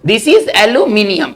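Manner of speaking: very slow and deliberate, each word spaced; slow careful reading. Shown as a demonstration. Teacher reads the word slowly to students. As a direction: read it out slowly for the class to copy. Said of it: "जब आपने सही पढ़ दिया है".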